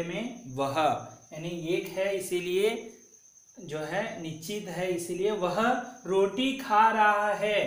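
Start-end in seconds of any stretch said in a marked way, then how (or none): 6.1-7.6 slow model reading. Shown as a demonstration. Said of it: "तो इसका उच्चारण कैसा करना है?".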